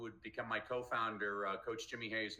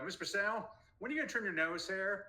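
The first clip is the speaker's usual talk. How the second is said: put-on child voice; 10 semitones higher, 3 dB louder than usual. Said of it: "She's like".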